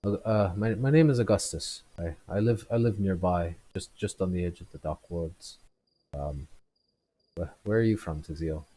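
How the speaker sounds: lightly voiced stammering drunk; trying to stand straight and remember; drunk man. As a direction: drunk man tells Tizio where he lives. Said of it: "He's just".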